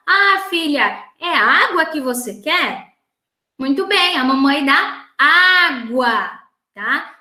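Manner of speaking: lightly acted mother talking to her daughter; encouraging mum, stretching the last word slowly; voorbeeldmoeder. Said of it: "Tente conversar com ela".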